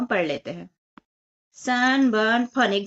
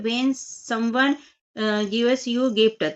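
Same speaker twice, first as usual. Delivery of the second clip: slow read-aloud; much slower than usual. Shown as a demonstration. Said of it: "reading exercise prompt aloud".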